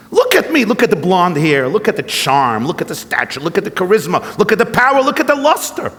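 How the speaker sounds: a hint of a preening, self-admiring Trump; boastful Trump. Rabbi telling a joke, Trump boasting to old woman, lightly voiced. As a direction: list his glories, rising vain boast.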